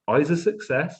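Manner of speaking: high West Country twang on Isaac Success; West Country accent. Retold or imitated. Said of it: "When you say it in the West Country accent".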